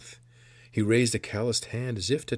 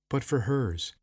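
mildly raised, insistent voice; urgent plea; 5 semitones higher than usual. A narrator's reading. Old woman pleading for the girl's sake, insistent. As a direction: press the point earnestly.

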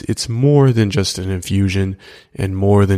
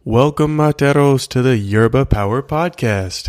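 enthusiastic welcome; 4 semitones higher than usual. Real, not acted. Host opening the show.

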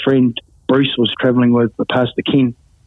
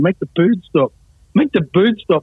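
higher-pitched mild mock yell, no real volume; mock screaming; 4 semitones higher than usual. Friend attacked by a magpie outside the car, mock screaming. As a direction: imitate a man screaming, pitched up without shouting. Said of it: "he's screaming".

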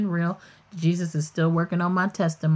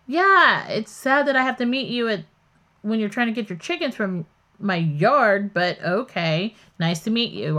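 sarcastic reply. Retold or imitated. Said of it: "And so I pop off".

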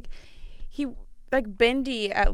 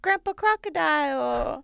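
put-on slow, higher little-kid voice; toddler voice; 5 semitones higher than usual. Toddler naming his grandfather on a poster, slow and high. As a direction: say it like a tiny child pointing. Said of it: "And he goes".

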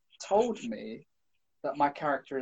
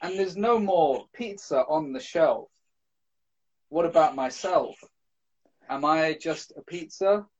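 spoken word poetry; 3 semitones higher than usual. Pretend. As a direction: slam poem, lines left hanging. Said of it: "perform a slam poem".

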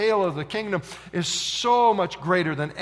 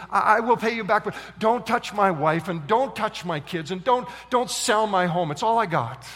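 insistent, louder plea; begging; 3 semitones higher, 4 dB louder than usual. Acted. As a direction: plead for your family, stumbling on the first words. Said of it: "he's begging this king".

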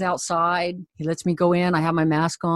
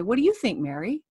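inviting; 4 semitones higher, 3 dB quieter than usual. Shown as a demonstration. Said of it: "I'll step back and say".

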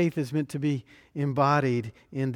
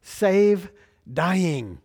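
loud, higher-pitched cry for help; abrupt cry; 4 semitones higher, 6 dB louder, much slower than usual. Acted. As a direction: cry it out in abrupt, emphatic words. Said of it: "They cry out with three very abrupt words".

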